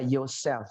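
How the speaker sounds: "yourself" as "yo-sef", L swallowed; low "yourself" with barely any L; unread L. Shown as a demonstration. Teacher showing the silent L, yourself as "yo-sef". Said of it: "L-nya nggak pernah dibaca".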